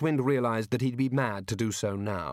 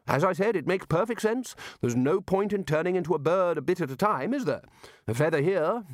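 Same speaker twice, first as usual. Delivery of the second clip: high, bluff lecturer; Ridcully blustering; 6 semitones higher than usual. Acted. Ridcully lectures the wizards, bluff and hearty. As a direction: hold forth confidently.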